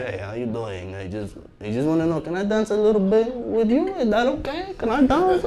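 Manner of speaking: a timid little voice that seems harmless; weak old man. Retold or imitated. Imitating an old man asking a young guy to dance with his date, soft and timid. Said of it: "It's an old man".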